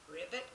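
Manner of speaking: frog ribbit. Shown as a demonstration. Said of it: "Now you can sing it with me".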